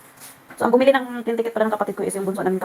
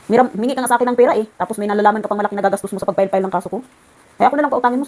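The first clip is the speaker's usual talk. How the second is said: mocking rant; 4 dB louder, faster than usual. Retold mocking reply to threat.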